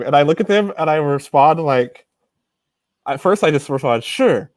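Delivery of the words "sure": a lightly put-on French "Sure", playing dumb; mock French accent. To the visa officers asking his name, a mild mock French accent. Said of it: "in a French accent".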